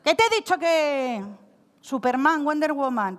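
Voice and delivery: a hint of a mother telling off her child; lightly voiced mum scolding; mild mock scold from mum or grandma. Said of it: "cómo se ponía vuestra madre o vuestra abuela cuando os regañaba".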